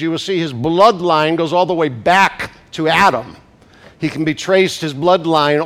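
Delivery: ordinary delivery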